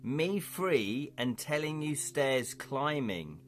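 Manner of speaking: slow, broken-speech hobgoblin; lightly voiced hobgoblin. Hobgoblin telling the party of his escape, slow creature voice. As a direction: draw the words out as a simple hobgoblin.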